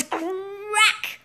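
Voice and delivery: high, drawn-out "crack" sound effect; loud cracking noise. A narrator's reading. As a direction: stretch the word like a rope snapping. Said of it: "broke with a loud noise".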